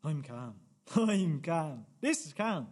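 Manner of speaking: forced calm. Acted. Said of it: "Are you gonna calm down?".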